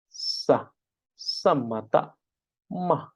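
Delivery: "samata ma" with an m; changed sound. Shown as a demonstration. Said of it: "the sound actually change".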